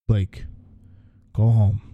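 a touch of a boss's command; firm order. Acted. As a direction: give it as an order, not a question. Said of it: "It was an order".

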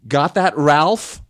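loud, high, drawn-out taunt; pointed, insistent jab. Retold or imitated. Host quoting the brother to camera, pointed jab. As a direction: hurl it slowly and loudly at someone. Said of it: "looked right into the camera and said".

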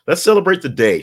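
high, loud and celebratory; sudden burst of celebration; festive announcement. Real, not acted. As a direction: throw the opening up high like a party.

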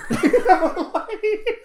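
a high burst of laughter; high giggling laugh; breathy high laugh. Real, not acted. Laughing at own joke.

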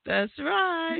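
laughing while talking. Real, not acted. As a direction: chuckle through the words. Laughs at guessed tune.

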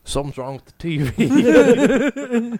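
slowed, spooky line; slow ominous voice. Pretend. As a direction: drag it out ominously. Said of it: "here's what I would give it".

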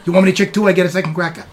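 streetwise New York rat haggling for crackers; New York wiseguy rodent bargaining. Acted. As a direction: play a pushy little rat who won't work for free. GM voices the rat NPC.

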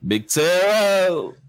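slow, solemn mock announcement; mock announcer. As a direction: announce it slowly like breaking news. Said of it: "another announcement".

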